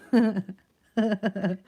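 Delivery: real laughter breaking into speech; amused, laughing as you go. Real, not acted. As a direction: talk through a rising laugh. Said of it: "I don't know why I'm laughing".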